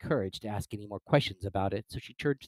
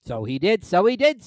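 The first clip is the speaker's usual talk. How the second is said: sighing; 9 semitones higher, 9 dB louder than usual. Acted. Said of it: "sighing in his turn".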